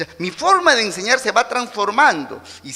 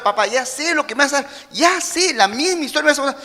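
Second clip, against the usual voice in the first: put-on bored teenager; 5 semitones higher than usual. Hijo adolescente fastidiado.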